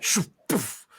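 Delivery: whooshing "shoo" then puffed "poof"; imitated spell sound. Game master showing the illusion being cast, mouthed whoosh. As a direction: mouth a magical whoosh and pop.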